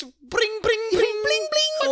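high sung ringing alarm; alarm ring imitation. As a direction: sing it like a bell.

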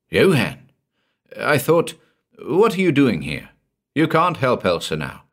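surprised. Acted. Karl startled, relieved in graveyard.

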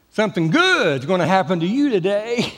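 imitating Joel Osteen. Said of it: "it was Joel Osteen".

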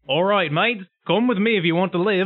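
lightly voiced matey pig; a hint of a pig character's rallying call; Piglish. Player urges the pigs to follow, lightly voiced Piglish. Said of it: "say something to all the pigs in Piglish".

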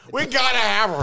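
high-pitched mock eagerness; mock excitement. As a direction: imitate recruiters desperate to have someone. Acting out delighted hiring panel.

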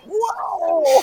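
high drawn-out whoa; surprised. Acted. Player reacting to the game's turn, surprised. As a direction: let out a long, high whoa. Exclaiming over the scene at table.

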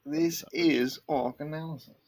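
high put-on British announcer; mock British accent. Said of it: "say it with a British accent".

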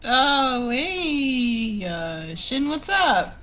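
startled, then faking casual; caught off guard. Acted. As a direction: fumble a casual hello.

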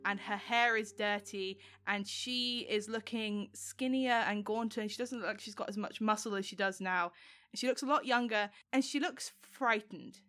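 measured, deliberate storytelling with suspenseful pauses; game master scene-setting. Acted. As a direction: narrate a vision unfolding, lingering on key words. Game master describing the vision.

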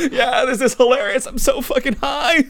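hammed-up high, laughing stoner voice; hardcore man laugh. High friends find it hilarious, hammed-up laughing. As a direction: guffaw through the words. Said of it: "like, hardcore man laugh".

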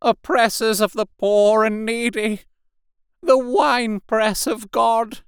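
high, fervent preacher's wail of self-blame; loud ranting repentance. A narrator's reading. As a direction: rant like a half-mad curate calling sinners to repent. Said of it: "he began to talk aloud instead of whispering".

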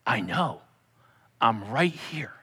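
soft, low hush; comforting whisper. Pretend. The Father comforting Chris in tears, hushed. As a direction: hush him like a crying child. God comforting crying believer.

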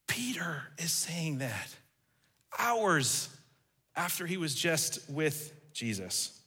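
hushed, slow whisper. Real, not acted. Preacher whispering to the congregation about Peter's denial. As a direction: drop to a whisper for weight.

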